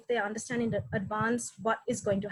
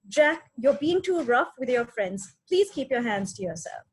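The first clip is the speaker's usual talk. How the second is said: firm tone. Shown as a demonstration. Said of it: "speaking in clear, firm tones".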